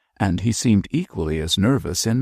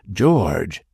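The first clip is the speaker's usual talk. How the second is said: shocked cry; 4 dB louder than usual. Acted. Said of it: "cried Mab and Gabriel in a breath".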